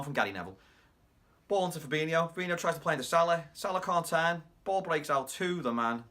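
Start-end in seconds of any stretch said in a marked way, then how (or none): 1.5-6.0 loud, high-pitched play-by-play; excited goal commentary. Retold or imitated. Fan re-living Shaqiri's second goal, excited loud commentary. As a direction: call the build-up like a live commentator, raised voice.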